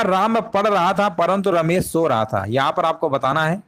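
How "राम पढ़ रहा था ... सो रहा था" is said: reads the example sentence out slowly; deliberate dictation pace; slow read-aloud. Shown as a demonstration. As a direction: spell out the sentence for the class, unhurried. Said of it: "लिखा हुआ".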